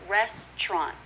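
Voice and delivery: "Restaurant" as res-chrant; CH in TR cluster. Shown as a demonstration. Teacher showing a variant, "Restaurant" with ch: res-chrant. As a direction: turn the "tr" of "Restaurant" into a ch sound. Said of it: "sometimes you'll hear a C H".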